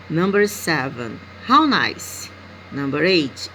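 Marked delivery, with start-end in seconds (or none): 1.5-2.3 higher and louder, a delighted "how nice"; teacher's example of astonishment; astonished. Shown as a demonstration. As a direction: sound amazed at something lovely. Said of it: "express with astonishment that something is really nice".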